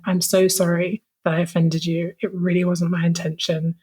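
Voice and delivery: understated, earnest apologising; heartfelt apology. Retold or imitated. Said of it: "heartfelt message".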